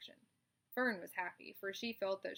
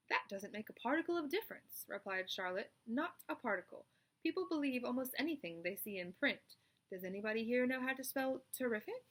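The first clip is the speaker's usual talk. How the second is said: spider's speech; 4 semitones higher than usual. Acted. Charlotte explains her trick to the animals, confident. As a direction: address the barn like a chairwoman.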